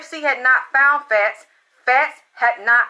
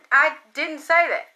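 higher, shocked disbelief on say; shocked denial; 5 semitones higher than usual. Retold or imitated. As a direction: blurt out "say" in disbelief.

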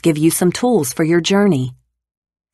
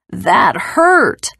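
higher, hurt giant wail; crying giant; 5 semitones higher, 3 dB louder than usual. Acted. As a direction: cry out in pain like a giant. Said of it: "the giant cried".

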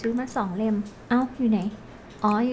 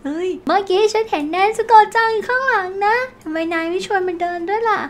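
put-on excited anime boy; 6 semitones higher than usual. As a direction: call out to a friend like a keen young hero. Voicing anime boy character in game.

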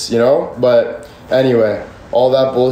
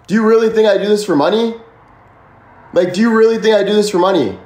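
higher, fast, exasperated retort; indignant; 6 semitones higher, faster than usual. Real, not acted. Streamer rebutting a viewer's money accusation, indignant and fast. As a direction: throw the question back at them.

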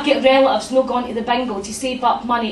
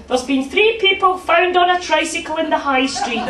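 local news reporter; 4 semitones higher than usual. Retold or imitated. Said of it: "the women that go".

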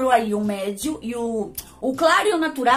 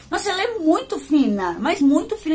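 excited; 4 semitones higher, 3 dB louder than usual. Real, not acted. Delighted by the powder.

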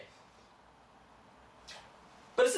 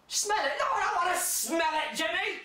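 mock disgust; 8 semitones higher than usual. Acted exchange over a gift.

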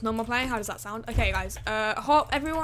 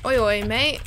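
cheeky oi oi mate; 5 dB louder than usual. Pretend. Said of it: "I keep on saying oi, oi, mate".

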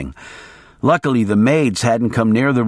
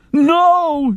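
yelling maid. A narrator's reading. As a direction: cry it out high and sharp. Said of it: "she yelled".

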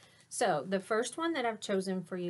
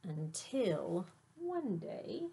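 grand announcement. A narrator's reading. Teacher hyping the cool beans' entrance to kids, showy announcer voice. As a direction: announce them like stars arriving. Reads picture book aloud.

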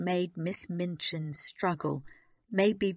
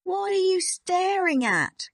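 high, loud snapped demand; exasperated, raised-voice challenge; angry snap; 13 semitones higher, 7 dB louder than usual. A narrator's reading. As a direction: snap at the child, pitch leaping up. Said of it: "Miss Minchin snapped".

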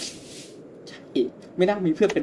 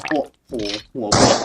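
surprised exclamation; 2 semitones lower, 7 dB louder than usual. Real, not acted. Player startled by a drenched figure, surprised. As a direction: blurt it out, startled. Reacts to game scare.

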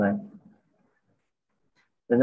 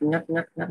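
"ngắt, ngắt, ngắt" in separate higher beats; choppy demo; 5 semitones higher, 3 dB quieter, slower than usual. Shown as a demonstration. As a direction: break "ngắt, ngắt, ngắt" apart, pitched up. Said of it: "Kiểu là đừng có ngắt".

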